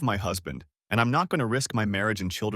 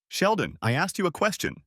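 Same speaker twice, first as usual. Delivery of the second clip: raised, higher and insistent repeat; louder voice; 7 semitones higher than usual. Acted. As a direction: call him back sharply, a notch louder. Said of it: "she said in a louder voice".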